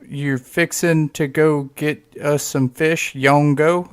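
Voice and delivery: slow, careful echo of the Southern words; slow puzzled repeat. Retold or imitated. Outsider repeating the fishing invite, slow and puzzled. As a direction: repeat it back slowly, trying to decode it. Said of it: "And I'm like".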